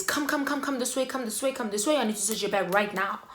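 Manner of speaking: rushing officer. Retold or imitated. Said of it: "she rushes me and she says".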